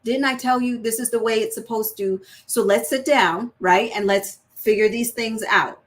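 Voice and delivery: put-on a touch of a teacher talking to a child; steady, instructive, guiding; teaching tone. Shown as a demonstration. Parent to child, lightly teaching. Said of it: "your tone sounds like you're teaching".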